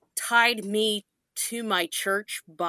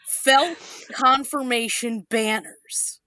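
voice cracking; 2 semitones higher, slower than usual. Real, not acted. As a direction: voice cracks mid-phrase. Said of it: "Sorry, my voice cracked".

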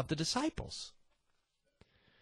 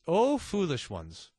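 fancy phrasing again; slower than usual. Shown as a demonstration. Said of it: "take out the fancy".

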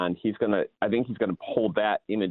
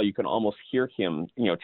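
ordinary talk, nothing marked

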